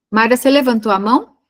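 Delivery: to someone hard of hearing. Real, not acted. Calling a student on video call.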